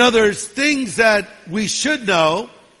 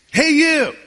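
high squawking parrot call; high, loud parrot squawk; 7 semitones higher, 4 dB louder than usual. Acted. Parrot calls out to woman.

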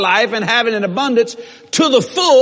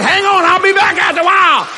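loud, higher, laughing call; laughing loud reassurance; cheerful call; 5 semitones higher, 3 dB louder than usual. Retold or imitated. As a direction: toss it back over your shoulder. Calling out while leaving.

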